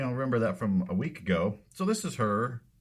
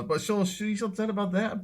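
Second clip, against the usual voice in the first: sarcastic falsetto; 13 semitones higher than usual. Pretend.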